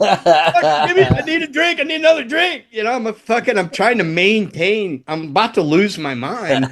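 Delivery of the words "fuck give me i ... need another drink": high, harried demand; retold frantic calling-out; retold yelling. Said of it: "I'm yelling to Craig".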